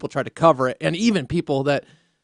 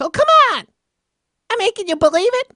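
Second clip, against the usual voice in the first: shrill, much higher squeal of disbelief; Chris Matthews impression; 6 dB louder, faster than usual. Shown as a demonstration. Host mocking Romney, squeaky high-pitched scoffing disbelief. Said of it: "I should do it like this".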